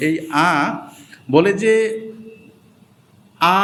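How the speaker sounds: আ stretched long, the wrong way; wrong long vowel; drawn-out wrong aa. Shown as a demonstration. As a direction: drag out the আ too long. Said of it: "এরকম টান হবে না".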